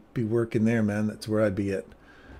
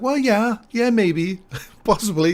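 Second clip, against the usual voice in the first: high, squeaky nervous hedging; mock panicky high voice, half laughing; nervous backpedal; 11 semitones higher, 4 dB louder than usual. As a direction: hedge like you're scared of the guy. Retold nervous backpedal to inmate.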